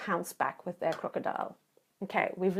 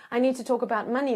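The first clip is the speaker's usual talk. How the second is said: blunt opener; much faster than usual. Shown as a demonstration. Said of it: "even if you say".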